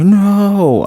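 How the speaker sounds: high, long drawn-out "no"; mock freak-out. Imitating a woman imagining her rejection, mock freaking out. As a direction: wail it high in pretend panic. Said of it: "she's freaking out like".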